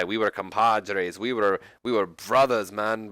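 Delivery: mock Hispanic accent, lightly done; a hammy, half-hearted Hispanic accent; slow, mild mock Hispanic accent; bad Hispanic accent. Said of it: "doing a horrible Hispanic accent".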